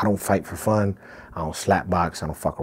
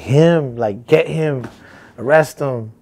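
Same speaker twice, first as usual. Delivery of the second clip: higher and louder, pointing him out to the police; mock screaming; 8 semitones higher, 8 dB louder, much slower than usual. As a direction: yell for the cops to grab him. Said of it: "started screaming for the cops".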